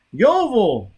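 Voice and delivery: high, loud shout of the name. A narrator's reading. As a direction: call out desperately. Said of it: "Bunny shouted".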